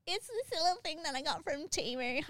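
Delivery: high, giggling retelling of the daughter's words; laughing through it. Retold or imitated. Daughter explains the Temu gadget, laughing.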